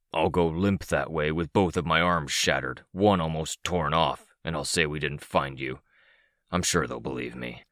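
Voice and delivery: lightly hissing villain, grudging; sinister creature character. Acted. Narrator voices Cryptid striking a deal.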